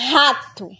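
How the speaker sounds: rato with the strong guttural R, "hatu". Shown as a demonstration. Teacher showing kids the strong R in rato. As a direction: stress the strong R at the start of rato. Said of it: "o R tem um som forte".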